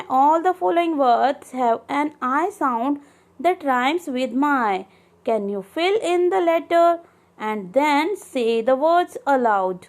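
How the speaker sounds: very slow, word by word; slow textbook reading. Acted. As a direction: read it out slowly for the class. Reads exercise instructions. (धीमे-धीमे पाठ पढ़ना)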